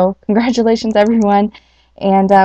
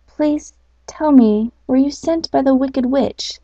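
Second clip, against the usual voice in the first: bee's worried question; 4 semitones higher than usual. Acted. Bee fears the witch.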